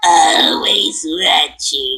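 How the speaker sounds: slow, drawn-out creepy voice; slow creepy drawl. Pretend. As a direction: stretch it out like a creepy slug. Monsters Inc quote.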